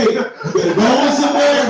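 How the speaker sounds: scared bravado. Retold or imitated. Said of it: "That's how you know you scared".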